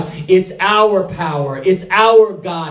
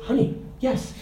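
whispered aside; 4 semitones higher, 8 dB quieter than usual. Retold or imitated. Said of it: "I said".

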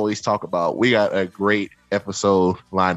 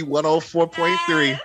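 slower radio call through laughter; laughing radio call; 5 semitones higher, slower than usual. Real, not acted. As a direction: sing out the station, laughing.

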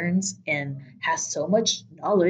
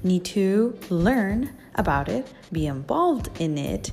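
fuzz distortion. Real, not acted. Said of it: "we apologize for the distorted audio".

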